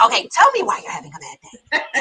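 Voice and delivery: lightly voiced soothing therapist; calm therapist. The therapist answers her call, lightly voiced and soothing. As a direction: answer like a patient counsellor.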